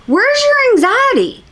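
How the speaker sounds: very high, slow, stretched question; incredulous questioning. Acted. Viewer challenging her claimed anxiety, high incredulous demand. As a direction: wail it up high in mock bafflement. Acts out own disbelieving reaction.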